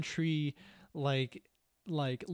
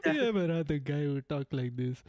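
a light, playful mock Russian accent; broken English with a Russian accent, for fun. Player teasing friends in a mock Russian accent. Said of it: "I really wanna play Russian character".

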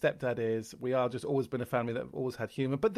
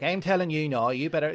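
lightly voiced Irish dad; 2 semitones higher, 5 dB louder than usual. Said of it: "I'd do the different accents".

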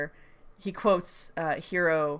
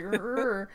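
annoyed growl; 7 dB quieter than usual. Retold or imitated. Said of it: "the way she says it".

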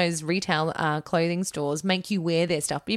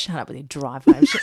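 laughing; 3 dB louder than usual. Real, not acted. Laughing protest.

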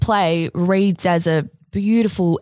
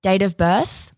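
robot voice; 2 semitones lower, slower than usual. Acted. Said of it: "can I do a robot voice?".

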